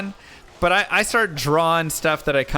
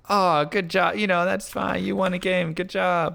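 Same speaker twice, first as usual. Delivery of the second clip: mock sweet opponent; 3 semitones higher than usual. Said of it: "she was the nicest person ever".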